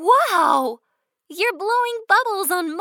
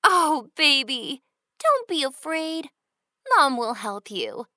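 reassuring mother. Acted. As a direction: soothe a scared child. Mom comforting scared child.

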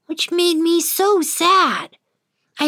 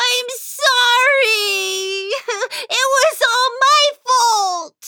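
high, slow sobbing confession; crying apology; 11 semitones higher, slower than usual. Acted. Whiskers crying to his parents, high sobbing apology. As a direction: break down and confess. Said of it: "I cried my way".

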